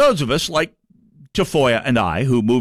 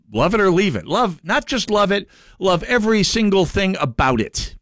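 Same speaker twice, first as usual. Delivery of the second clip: a hint of a preachy politician, a bit higher; lightly mock the scolding loyalist; lightly voiced lecturing official, somewhat higher; Carl Baum impression; 5 semitones higher than usual. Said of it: "I'm doing my Carl Baum again".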